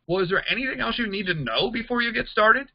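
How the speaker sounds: "Well, is there anything else" pitched high, rising at "started"; genuine-question lilt through "before you get started?"; questioning tune. Shown as a demonstration. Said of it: "it sounds like a question".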